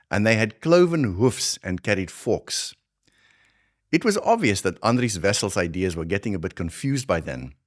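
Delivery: put-on thick Afrikaans South African accent; heavy South African accent. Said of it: "So I'm gonna channel a much heavier South African accent".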